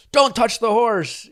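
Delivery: imitating a cop, pitched high and slowed; mock cop barking a slow warning; stern cop order. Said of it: "the cops are like".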